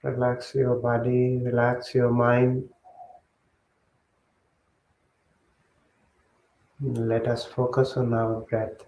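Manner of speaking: measured meditation guidance with long pauses; guided meditation. Real, not acted. Monk settling the group into breath meditation, guided meditation voice. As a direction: guide them step by step, leaving long silences.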